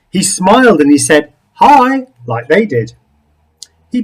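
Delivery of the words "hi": high, loud eager greeting; bright eager hi. Acted. Something Else greets the others, eager high hi. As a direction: chirp it out, trying to fit in.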